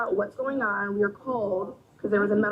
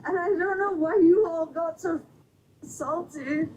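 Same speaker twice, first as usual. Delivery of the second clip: tearful, high plea; crying; 6 semitones higher than usual. Real, not acted. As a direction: sob out the complaint. Drunk passenger crying to police.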